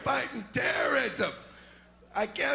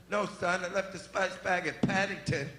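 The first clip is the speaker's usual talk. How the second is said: lightly voiced dad; 5 semitones lower, 3 dB quieter than usual. Dad voice in sketch.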